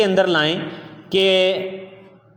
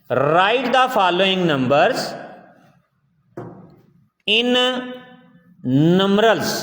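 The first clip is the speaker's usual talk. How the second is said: slow read-out; much slower than usual. Shown as a demonstration. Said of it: "reading the exercise question".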